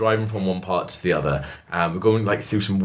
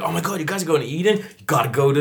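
quick, excited American voice; accidental American accent; 4 semitones higher than usual. Retold or imitated. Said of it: "I don't know why he's American".

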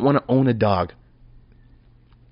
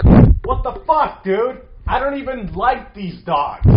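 retold exasperation; 8 semitones higher than usual. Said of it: "And I'm like".

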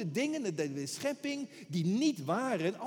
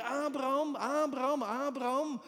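God calling Abraham; 5 semitones higher than usual. Acted. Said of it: "En dan roept de Heere weer".

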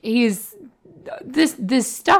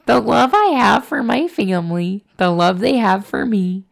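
a hint of comic puppet voice; Kermit the Frog. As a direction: start as a pitched-up puppet, then let it settle. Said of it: "do it in a Kermit voice".

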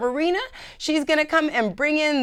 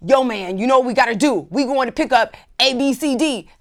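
mad guy; 5 dB louder than usual. Retold or imitated. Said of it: "so he's like".

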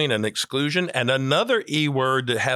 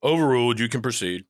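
smarmy judge voice; faster than usual. Retold or imitated. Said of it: "that kind of smarmy voice like that".

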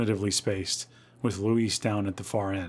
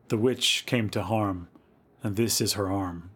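intoning. A narrator's reading. Mitch handing round witch's parts, intoning. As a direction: intone the rhyme, letting it fall. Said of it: "intoning the words".

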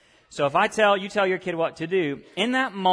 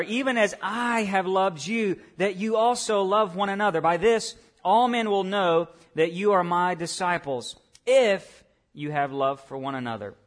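emphatic scripture reading; 3 semitones higher, 4 dB louder than usual. Acted. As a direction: read the verse out firmly, leaning on key words. Reads scripture out with force.

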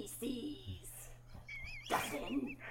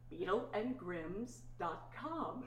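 low announcer read; voiceover voice; 7 semitones lower, 10 dB quieter than usual. Acted. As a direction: close the ad like a voiceover. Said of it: "Thank you, voiceover Katie".

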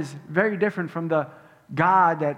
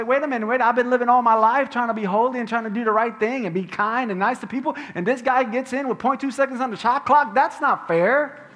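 higher, indignant whiny protest; a hint of a self-righteous grumble; mock religious complainer; 3 semitones higher than usual. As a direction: play the offended church person. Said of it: "To which us religious people say".

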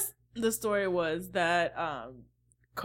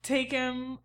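slow ominous; 5 semitones higher, 4 dB louder, slower than usual. Real, not acted.

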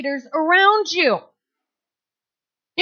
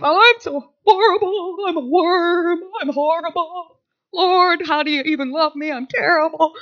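mock self-pity. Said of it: "I'm not gonna wallow around that".

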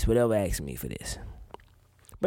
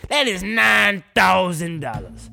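whispered sum; 4 semitones higher, 4 dB louder, much slower than usual. Real, not acted. Doing the wedding math.

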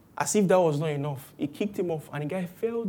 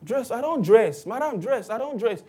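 bus passenger; 3 semitones higher than usual. Retold or imitated. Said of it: "someone enter and say".

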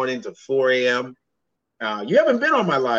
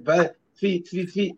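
mock Castilian lisp; 3 semitones higher than usual. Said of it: "he was like".

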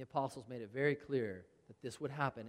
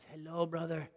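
lightly voiced phone greeting, pitched up; Brother Andrew; 4 semitones higher than usual. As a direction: imitate a caring friend's hello, no accent. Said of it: "he calls and he goes".

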